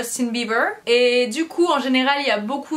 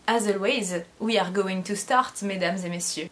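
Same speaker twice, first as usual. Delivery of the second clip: put-on Parisian accent; 6 semitones lower, 5 dB quieter than usual. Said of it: "j'ai fait un accent parisien".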